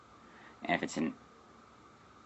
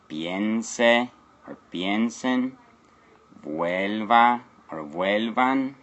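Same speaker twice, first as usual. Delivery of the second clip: slow demo; 2 semitones higher, 4 dB louder, much slower than usual. Shown as a demonstration. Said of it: "so you can see".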